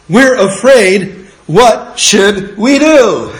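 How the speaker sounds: high, slow, pleading afraid voice; pleading quote. Retold or imitated. Preacher voicing Israelites pleading with Moses, high and slow. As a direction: draw it out like a frightened crowd. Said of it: "they didn't say to Moses".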